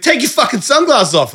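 high-pitched snapping bogan partner; mock Australian bogan scolding; angry Australian bogan. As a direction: imitate her bogan outburst. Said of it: "like, an Australian bogan person".

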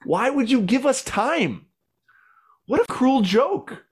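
high, loud anguished pleading at God; reliving a tearful rant at heaven; yelling at God. Retold or imitated. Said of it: "yelling at God".

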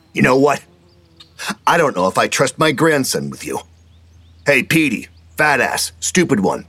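put-on a bully showing off to win the kids; gruff grandpa. A narrator's reading. Hogan luring the boys away from Fred, loud and crowing.

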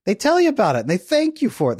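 usual speaking voice

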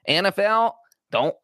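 a lightly done Jerry Jones impression, pleading with the league; bad Jerry Jones accent. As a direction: owner begging the NFL to skip week one, in a half-hearted Texas accent. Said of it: "That is a terrible Jerry Jones accent".

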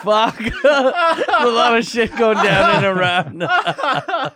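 slow, high, laughing through the line; can barely get it out for laughing. Pretend. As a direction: giggly joke line. Laughing joke about Iran.

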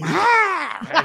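high laughing mock scream. Flight attendant seeing him pee, high mock scream. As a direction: shriek in mock horror. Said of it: "She scream".

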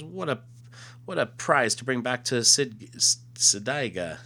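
alien voice. Acted. Alien exulting over prize.

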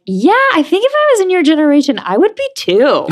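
high, quick Boston accent impression; playing Mom with a thick Boston accent. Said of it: "With her thick Boston accent".

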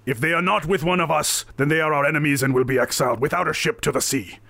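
lightly voiced stern pirate captain; stern captain's decree. Captain threatening the outsiders with exile, stern. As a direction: pronounce it as a warning. Game master plays balcony captain.

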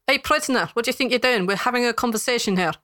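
officious dwarf guard telling someone off; indignant guard. Acted. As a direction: pull the prisoner up sharply. Guard challenges intruding prisoner.

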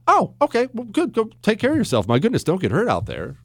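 high start, softening concern; mock sympathetic public. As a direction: act suddenly understanding and concerned. Imitates a sympathetic public reply.

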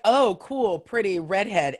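lightly voiced, admiring and high; mock admiring voice. American crowd gushing over a redhead, lightly voiced admiration. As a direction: gush over the pretty redhead. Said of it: "be like".

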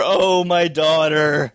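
slow, hammed-up mother's lament; mock weepy mother. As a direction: drag it out like a weepy mom. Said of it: "the weepy mother".

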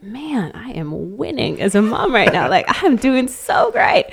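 mock self-satisfied boast with a laugh; smug inner voice. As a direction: gloat lightly about winning as a mom. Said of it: "And I'm like".

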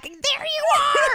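high, delighted cry; excited greeting. Retold or imitated. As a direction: call out as if reuniting after summer. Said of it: "being like".

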